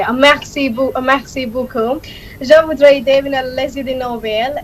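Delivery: French spoken as a short demo. Shown as a demonstration. Guest demonstrating languages for the host, speaking French. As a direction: say thanks in French.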